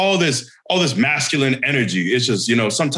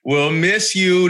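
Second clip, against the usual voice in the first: mock tearful farewell; 4 semitones higher, much slower than usual.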